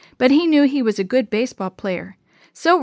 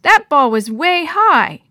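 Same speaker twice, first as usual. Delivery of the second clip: high, loud and stretched out; indignant arguing; 6 semitones higher, 6 dB louder, slower than usual. A narrator's reading. Batter insists the pitch was bad, indignant. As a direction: drag out the protest, insisting.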